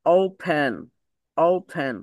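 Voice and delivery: ওপেন slowly, with a long open ও. Shown as a demonstration. Teacher drilling the O vowel for students, slow demo. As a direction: draw out the ও in ওপেন. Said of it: "সেটাকে ও না বলে".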